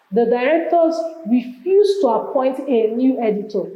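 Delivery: "refuse" punched as the strongest word; stress on refuse. Shown as a demonstration. Teacher reading an exam sentence aloud, stress on "refuse". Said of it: "Emphasis on refuse".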